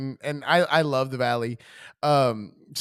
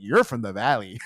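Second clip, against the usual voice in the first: knowing call-out; 4 semitones lower than usual. Retold or imitated. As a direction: blurt it out the moment you hear it. Recognizing the Valley accent.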